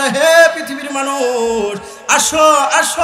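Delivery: high, loud summons to a whole crowd; calling out. Acted. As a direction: call out with stretched words, as if to all mankind. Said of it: "ডেকে ডেকে বলে". (উঁচু গলায় ডেকে ডেকে আহ্বান)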